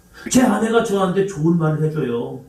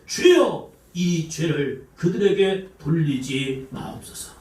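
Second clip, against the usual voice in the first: crying out to God; slower than usual. Retold or imitated. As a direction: call out the prayer slowly and earnestly. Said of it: "크게 불러 이르되".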